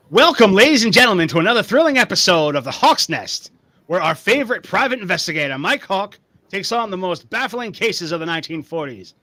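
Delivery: radio show announcer. Acted. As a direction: announce it like a forties radio drama. Radio drama host intro.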